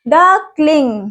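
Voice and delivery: डकलिंग drawn out slowly with a falling end; drawn-out model word; slow teaching word. Shown as a demonstration. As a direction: stretch डकलिंग so kids can copy it. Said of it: "बत्तख के बच्चों को हम क्या बोलते हैं".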